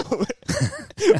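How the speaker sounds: laughing. Real, not acted. Laughing excited reply.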